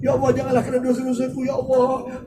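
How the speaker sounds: imitating a tearful prayer. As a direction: plead with God as if near tears. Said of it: "kita akan menangis".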